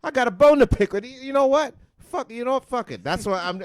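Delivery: high, loud fired-up shouting; loud rant. Real, not acted. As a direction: rant with full energy. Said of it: "ranting about 2023".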